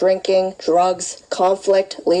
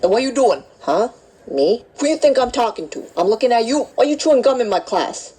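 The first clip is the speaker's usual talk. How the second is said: scolding instructor; 5 semitones higher than usual. Acted. Instructor scolds gum-chewing student.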